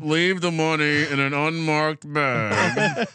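slow, menacing villain voice; slowly, like a Bond villain. Retold or imitated. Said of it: "Bond villain".

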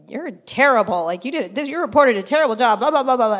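fast, loud, annoyed rant at the editor. Retold or imitated. Student complaining to the Metro editor about a bad reporter, fast and annoyed. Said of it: "really annoyed".

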